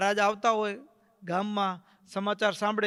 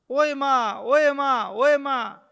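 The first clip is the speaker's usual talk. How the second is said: high, loud wailing cries for help; screaming in pain; 4 semitones higher, 8 dB louder than usual. Retold or imitated. Kadvi Kaki screaming in pain as charms bounce back. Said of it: "આમ ચીસો પાડે કડવી કાકી".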